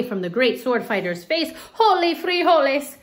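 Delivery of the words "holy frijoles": high, loud surprised cry; high loud shocked exclamation. Acted. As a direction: shout it in shock. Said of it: "cried Skipito".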